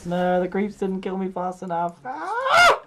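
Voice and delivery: loud, frustrated shout; frustrated outburst. Real, not acted. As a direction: yell it in frustration. Dying in game, frustrated.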